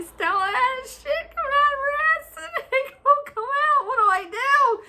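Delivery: high panicked question, laughing through it; retold panic. Calling her sister about the dog, laughing panic. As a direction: panic on the phone, half laughing. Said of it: "I'm calling them and I'm like".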